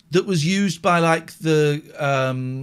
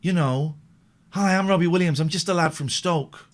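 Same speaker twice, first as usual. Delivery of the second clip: impression of a singer; 3 semitones higher than usual. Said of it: "I think that's how he talks".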